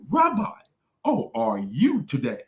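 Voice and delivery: sweet, practiced greeting; mock rehearsed greeting. Mocking the guest's rehearsed hello to the Rabbi. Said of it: "He said".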